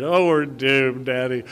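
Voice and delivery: put-on small child voice. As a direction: drag out the doom the way a toddler would. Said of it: "little Luke is his name".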